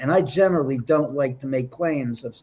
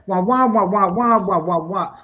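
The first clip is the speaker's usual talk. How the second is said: Peanuts adult wah-wah; 2 semitones higher, 3 dB louder than usual. Retold or imitated. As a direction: mimic the droning cartoon grown-ups in wahs. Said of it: "like the Charlie Brown, the adults".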